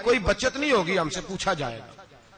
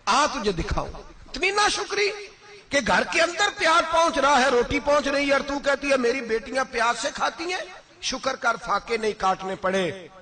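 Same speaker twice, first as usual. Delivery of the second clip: wrathful rebuke; 7 semitones higher than usual. Retold or imitated. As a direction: thunder at her for her ingratitude. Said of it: "حضرت عمر جلال میں آ گئے".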